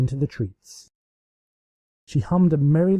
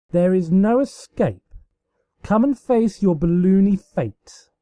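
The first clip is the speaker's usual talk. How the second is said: higher, hammy villain gloat; mock villain; 7 semitones higher, 4 dB louder than usual. Luna gloating over her sister.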